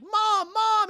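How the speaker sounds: high, loud mock shriek; panicked yell. Son on the toilet shouting at mom, panicked yell. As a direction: yell out like a kid caught out.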